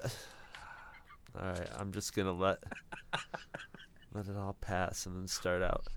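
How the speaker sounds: soft unvoiced whisper. Real, not acted. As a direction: breathe it out in a whisper. Quieting down after laughter.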